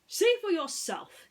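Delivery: hint of a worried toy pig; lightly voiced Ham. Ham asks friends about Mister Spell, lightly voiced.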